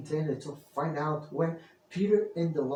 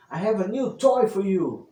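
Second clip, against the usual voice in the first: loud call to the monkeys; shouted; 4 semitones higher, 7 dB louder than usual. Acted. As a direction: call it out across the trees. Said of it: "Peter shouted".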